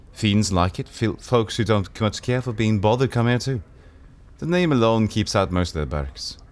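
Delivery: lightly voiced sardonic woman; barmaid character. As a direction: play her worldly and wry.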